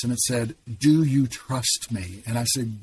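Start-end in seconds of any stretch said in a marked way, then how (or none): 0.8-2.2 slow, measured voice of God; loud voice of God. Retold or imitated. God asking a man in his breakdown, slow and measured. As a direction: retell God's question slowly, without shouting. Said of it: "it was a loud voice".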